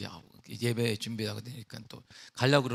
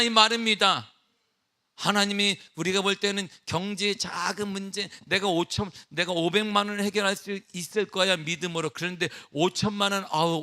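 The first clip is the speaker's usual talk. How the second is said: raised, loud sermon voice, hammering each point; a pastor thundering that God's word is not to be added to; forceful preaching; 6 semitones higher, 6 dB louder than usual. Acted. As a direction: preach it out to the whole congregation. Preaching at full force from the pulpit.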